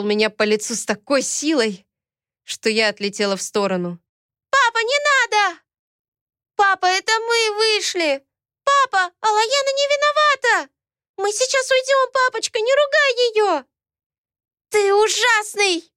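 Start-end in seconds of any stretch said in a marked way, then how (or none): 4.5-13.6 put-on high, loud childish crying plea; small girls begging in fear; pleading little girls. Daughters beg their father, frightened childish plea. 14.7-15.9 put-on high, loud, slow childish outburst; a little girl lashing out; blurted out. Ayat shouts at her father, angry child outburst. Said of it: "выпалила Аят".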